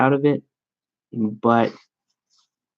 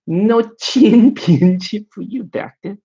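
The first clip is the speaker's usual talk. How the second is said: high, slow put-on Asian accent; hammed-up Asian accent with a laugh in it; mock Asian accent; 9 semitones higher, 5 dB louder, slower than usual. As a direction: draw it out in an exaggerated, higher Asian accent. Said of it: "I only do good Asian accents".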